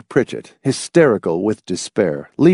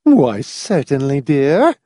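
civil; 4 semitones higher, slower than usual. A narrator's reading. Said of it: "Missus Pritchett replied civilly".

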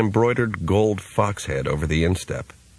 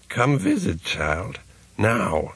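put-on slurred old man; 3 semitones higher, slower than usual. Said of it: "slurred voice".

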